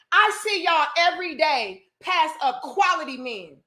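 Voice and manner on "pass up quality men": "quality men" with weight on "quality"; stress on quality. Real, not acted. Woman scolding ladies who overlook partners, emphatic on "quality". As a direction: lean on "quality", then mark "men". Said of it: "Emphasis on quality".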